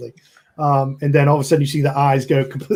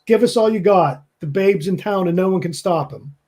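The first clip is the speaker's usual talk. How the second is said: higher, mildly raised boastful call; acted shout; 5 semitones higher than usual. The Babe calls to the quieted speakeasy, mock shout. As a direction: announce it like a half-voiced shout. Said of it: "you know, shouts".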